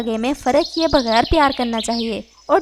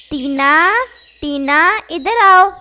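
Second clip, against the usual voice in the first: calling out; 4 semitones higher, slower than usual. Acted. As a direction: call her name, then yell come here. Mother calling daughter over.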